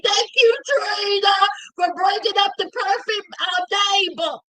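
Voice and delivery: rally everyone to thank Trina; loud shout-out thanking Trina; cheering crowd call. Shown as a demonstration. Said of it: "Everybody say".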